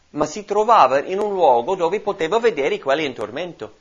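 usual speaking voice

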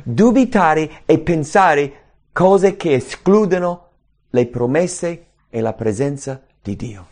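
ordinary talk, nothing marked

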